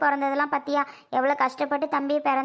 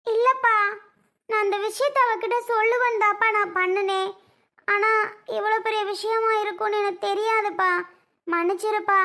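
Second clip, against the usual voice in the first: higher-pitched, hurt apology; apologetic pleading; 4 semitones higher than usual. Acted. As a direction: plead to be forgiven. Mother-in-law apologises to angry son-in-law. (வருத்தத்துடன் மன்னிப்பு கேட்டு கெஞ்சல்)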